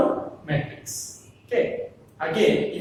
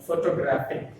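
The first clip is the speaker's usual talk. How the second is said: "Photographic" stressed on the third syllable; stress on "graph"; 2 semitones lower, 4 dB quieter than usual. Shown as a demonstration. Teacher repeats for the class, stress on "graph" in "Photographic". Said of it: "The stress is on the graphic".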